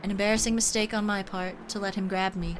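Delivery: stately angelic character voice; measured, formal, unhurried; Atir voice. Acted. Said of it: "I like doing her voice".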